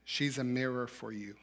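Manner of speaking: soft, hushed inner voice. Retold or imitated. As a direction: say it like a quiet voice inside your head. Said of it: "The voice again".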